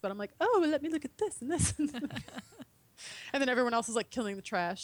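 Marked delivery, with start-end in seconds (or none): 0.4-1.7 lightly voiced fussing, pitched up; higher, playful self-mocking voice; distracted dawdler. Dawdler browsing during the countdown, lightly mock-absorbed. Voicing herself dawdling over website.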